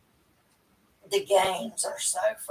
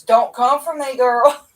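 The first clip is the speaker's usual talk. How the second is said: sassy; 2 semitones higher, 6 dB louder than usual. Acted. Playful sassy warning to friend.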